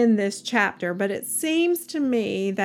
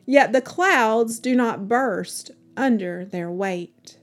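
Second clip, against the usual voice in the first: louder, declaiming the verses to a listening congregation; scripture proclamation; 3 dB louder than usual. Acted. Reader to listeners, proclaiming Job's words with a fuller voice. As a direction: proclaim each line like a preacher at the pulpit.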